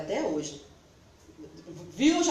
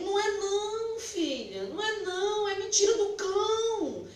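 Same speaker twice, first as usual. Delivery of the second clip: emphatic denial; 9 semitones higher than usual. Retold or imitated. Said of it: "Eu digo".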